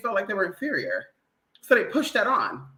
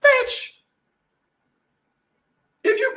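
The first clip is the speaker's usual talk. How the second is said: exasperated yelp; 5 dB louder, slower than usual. Real, not acted. Exasperated outburst.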